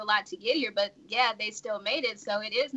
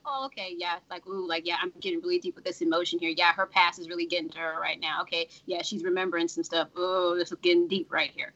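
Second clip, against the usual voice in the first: a hint of engrossed reader; 4 semitones lower than usual. A hint of a reader narrating her own engrossment. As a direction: murmur along like a reader getting into it.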